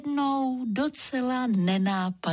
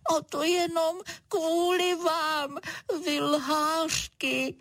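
high, slow weepy little cloud; crying cloud; 9 semitones higher, slower than usual. Acted. Little cloud weeping at the lying animals, high and slow. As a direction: cry it out, hurt and accusing. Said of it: "plakal mráček".

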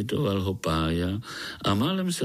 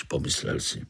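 ordinary delivery

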